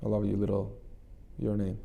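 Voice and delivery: put-on softly loving words to the inner child; a quiet tender I love you; tender, fading soft. Shown as a demonstration. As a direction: let it fade almost to a hush. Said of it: "And tell him".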